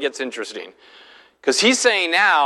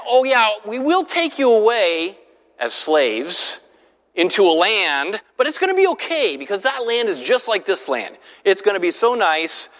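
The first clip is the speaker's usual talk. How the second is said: sarcastic mock sweetness; 4 semitones higher than usual. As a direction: sell the slavery like a treat, tongue in cheek. Mock reassurance of the enemy's offer.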